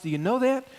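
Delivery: high, insistent question; urgent question. Real, not acted. Pastor challenging the church directly, high and urgent. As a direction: press the congregation to answer. Preacher pressing congregation.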